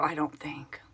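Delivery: unvoiced little aside; whispered aside. Real, not acted. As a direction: drop to a whisper. Aside to herself.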